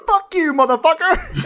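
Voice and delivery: high, drawn-out mock outrage; hammed-up wife firing back; play-fight, laughing through the insult; rough Carmela impression. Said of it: "I can't do any impressions".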